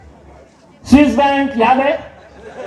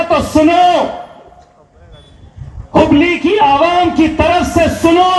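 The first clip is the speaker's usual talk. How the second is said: rallying shout; 6 semitones higher than usual. Acted. Rallying crowd on Hubli's behalf.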